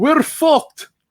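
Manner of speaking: put-on Bulgarian-accented speech. Retelling a Facebook call just before the Kickstarter opened, in a thick Bulgarian accent. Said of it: "with this thick, like Bulgarian accent".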